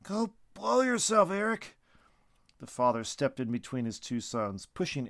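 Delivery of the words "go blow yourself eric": tearful yell. Acted. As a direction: lash out from the ground, crying. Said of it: "he yelled".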